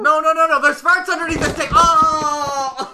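high, loud frantic yelling; host shrieking to save the table; panicked shout. Acted. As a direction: scream to stop him.

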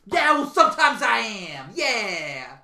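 loud wrestler's boast; cocky hyped-up wrestling star; Seth Rollins. Acted. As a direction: holler it proudly, then drop off. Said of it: "Seth Rollins is coming".

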